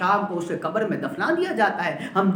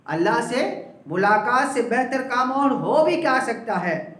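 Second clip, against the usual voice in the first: higher, fervent, savoring the words; fervent repeat; 6 semitones higher than usual. Shown as a demonstration. Preacher relishes the believer's answer, fervently. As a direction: repeat it with rapturous emphasis. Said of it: "آئے ہائے ہائے".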